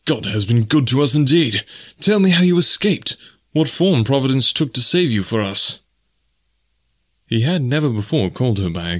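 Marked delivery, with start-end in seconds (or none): 0.0-5.8 lightly voiced eager man, higher; relieved Clayton. Clayton to Jane, mildly eager and relieved. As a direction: press her gently, glad and eager.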